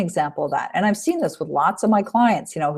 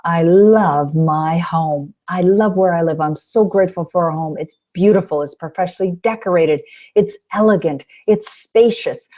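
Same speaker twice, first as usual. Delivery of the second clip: grateful affirmation. Shown as a demonstration. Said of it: "I take a big breath and go".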